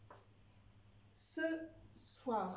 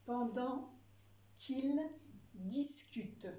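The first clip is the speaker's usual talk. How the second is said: dictating; 2 semitones higher, slower than usual. Shown as a demonstration. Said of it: "Phrase suivante".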